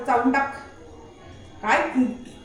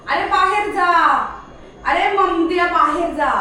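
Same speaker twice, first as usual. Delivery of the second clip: insistent order; 2 semitones higher than usual. Pretend. Repeats order to stubborn dog.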